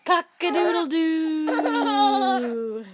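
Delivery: slow drawn-out rooster crow. Shown as a demonstration. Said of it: "He can sound like a rooster".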